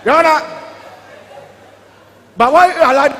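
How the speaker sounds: loud, exasperated appeal; shouted complaint. Acted. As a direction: shout your objection at the bench. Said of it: "I shout on you".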